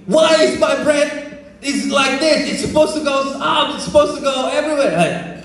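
high-pitched mock-upset complaint; upset wife. Wife complaining to husband about her flat bread, mock upset. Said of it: "she got upset at me".

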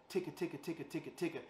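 ticka puffed hard against the hand; air pressure ticka. Shown as a demonstration. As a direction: push air on each ticka, softly. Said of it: "place the hand in front of your face and go".

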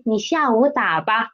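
softened order with 吧; gentle, softened request. Shown as a demonstration. Teacher shows how 吧 softens an order. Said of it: "it sounds softer".

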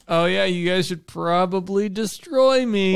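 leisurely put-on helpfulness; drawn-out skull voice. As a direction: stretch it out as the teasing skull. Acting the skull's casual advice.

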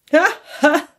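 big high laughing ha ha; hearty laugh. A narrator's reading. Nephew laughs heartily at his uncle Scrooge, a loud high laugh. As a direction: burst out laughing. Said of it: "laughed Scrooge's nephew".

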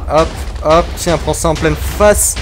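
loud, slow taunt at the monster; taunting shout. Real, not acted. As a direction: hurl it as you strike. Frappe le monstre. (cri provocateur)

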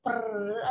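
trilled brrr of spooling tape; imitated tape unraveling. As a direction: roll a quick brrr like tape running out. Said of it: "Like an old V H S tape".

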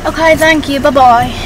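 put-on British accent farewell. Saying bye to the barista, British accent. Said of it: "that accent when you order your Starbucks".

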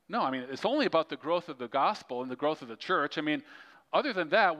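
understated sarcasm; sarcastic. Acted. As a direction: make the point with mock reasoning. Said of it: "That was sarcasm".

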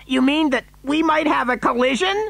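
high, incredulous question; alarmed cry. A narrator's reading. Father fearing a crash, crying out alarmed. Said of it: "cried Mister T V".

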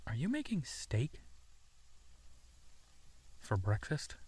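hushed whisper, eager; whispered delight. Acted. Whispering to the friend about the steak. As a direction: breathe it like a treat.

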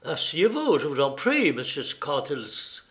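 calm an upset visitor; courteous, appeasing invitation to sit; soothing. Acted. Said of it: "dit Holmes d'un ton apaisant".

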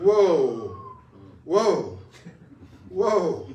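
loud, drawn-out whoa; calling a halt. Acted. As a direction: call out to stop a runaway, drawn out. Acted halting of the silence.

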